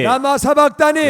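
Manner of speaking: high-pitched cry imitating Jesus; loud cry. Shown as a demonstration. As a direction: call it out for the congregation. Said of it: "큰 목소리로 다 같이". (큰 목소리로 높이 부르짖으며)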